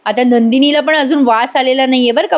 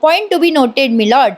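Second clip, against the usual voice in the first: theatrical lawyer; 2 semitones higher, much slower than usual. Retold or imitated. The speaker turning the family quarrel into a trial, theatrical lawyer. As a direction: play the advocate addressing a judge. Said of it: "विजयने जरा नाटकीय रूपांतरण दिलंय".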